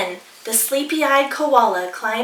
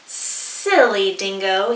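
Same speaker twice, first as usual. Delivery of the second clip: hissing; 3 semitones lower, slower than usual. Acted. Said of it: "he hissed".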